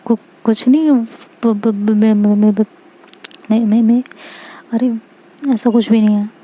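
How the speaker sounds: stumbling over the first sounds, panicked; stammering denial with repeated broken syllables; nervous stammer. Acted. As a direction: caught out and stuttering to deny it. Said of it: "थोड़ा घबरा जाती है".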